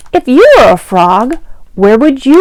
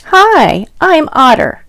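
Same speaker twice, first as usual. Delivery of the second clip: higher, friendly little otter greeting; Otter introducing himself; 6 semitones higher than usual. Acted. Otter greeting the reader, higher and friendly. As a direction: say hello as the small otter.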